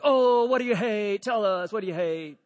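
rowdy egging-on, imitating a crowd; egging him on. Barbershop crowd to the big guy, egging him on. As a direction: goad him eagerly, starting big and trailing down. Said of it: "egging him on".

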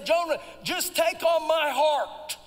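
voicing God urging Jonah to take his heart; God pleading with Jonah. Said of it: "he's trying to get Jonah to say".

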